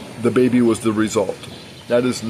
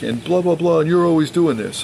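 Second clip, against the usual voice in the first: mocking rant; 5 semitones higher than usual.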